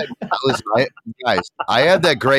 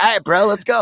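Vince McMahon swagger; 8 semitones higher, 3 dB louder than usual. Retold or imitated. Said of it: "coming out like Vince McMahon".

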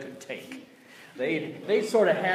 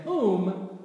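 voice of God; 5 semitones higher, much slower than usual. Acted. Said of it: "the voice of the Lord saying".

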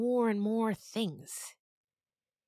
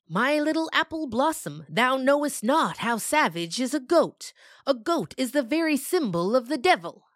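put-on bossy old farmer; 6 semitones higher, 7 dB louder than usual. Farmer warning his daughter about goats, louder and stately. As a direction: lecture her like a stern olden father. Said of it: "used to bossing everyone around".

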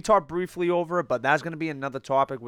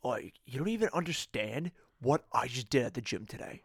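Chad impression; 5 dB quieter than usual. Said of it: "we do good Chad impressions".

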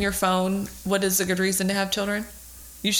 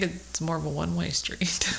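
whispered aside; 5 dB quieter than usual. Real, not acted. Wry aside.

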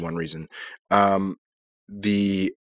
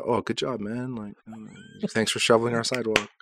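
higher, sarcastic thank-you; mock grateful praise; 5 semitones higher than usual. Friend imagines the church folk thanking them, in a sarcastic voice. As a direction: pretend to gush over a dull favour. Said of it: "I was expecting a little bit of, like".

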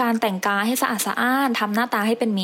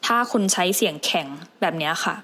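stiff, unfriendly delivery; demonstrating a stiff tone; hard, stiff voice; 3 semitones lower than usual. Shown as a demonstration. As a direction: say it in a hard, unwelcoming voice.

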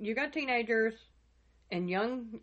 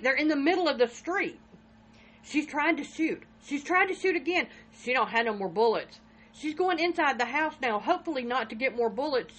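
higher, louder, urgent running report; lightly voiced neighbor narrating a shooting in alarm; retold urgent report; 4 semitones higher, 5 dB louder than usual. Neighbor telling the 911 operator what he sees, mild alarm. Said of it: "he's saying".

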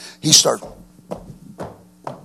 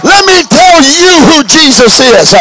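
slow, much higher and louder refrain; soaring refrain; 11 semitones higher, 8 dB louder, slower than usual. Acted. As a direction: stretch each word out to the crowd. Repeated sermon refrain.

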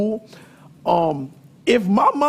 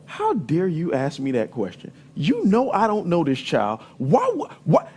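indignant mom; 4 semitones lower, 3 dB quieter than usual. Retold or imitated. Mom scolding her son for asking about a party, indignant. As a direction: lower and softer, a mother's scandalized rebuke. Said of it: "She's like".

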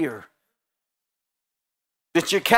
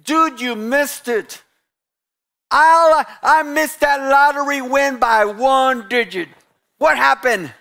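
mock casual complaint; 5 semitones higher, 4 dB louder than usual. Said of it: "start saying things like this".

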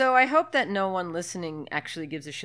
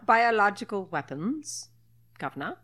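bad British accent; 3 semitones higher than usual. Recapping the film in jest, mock British accent. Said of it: "try to talk in British accents".

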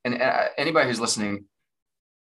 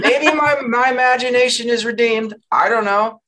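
much higher, floaty musing; high dreamy voice; 9 semitones higher, 5 dB louder than usual. Retold or imitated. Podcast guest voicing her own daydreaming thoughts, high and floaty. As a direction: dreamily wonder aloud, pitched way up. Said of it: "being like".

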